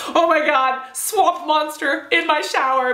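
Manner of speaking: hammed-up shock at a swamp monster; mock horror. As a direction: play up the swamp monster reaction, drawn out. Acting out reaction to green goo.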